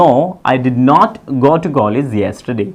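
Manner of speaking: every word laid out slowly; slow, spelled-out model sentence. Shown as a demonstration. Teacher dictates the answer to students, slow and clear. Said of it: "तो क्या बोलूंगा".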